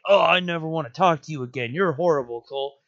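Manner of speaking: lightly acted sulky rejection; quick, mock-indignant outburst of a sulker; mock-angry character. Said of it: "like, being like".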